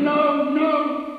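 high, loud feverish outpouring; fevered husband describing his dead wife's visits; crying out. A narrator's reading. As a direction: pour it out, gripped by the vision. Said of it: "he cried with such strength".

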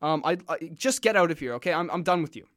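the general snapping, lightly voiced; a hint of a furious general; mock angry general. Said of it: "the general flips out".

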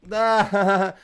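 forced little laugh on air; fake laugh. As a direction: push out a fake chuckle. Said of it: "Fake laugh".

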